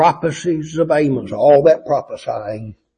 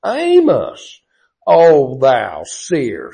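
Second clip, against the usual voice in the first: mocking; 4 dB louder, much slower than usual. Priest mocking Amos as a seer, slow sneer. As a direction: drag out the title with scorn. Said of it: "See, he's mocking him".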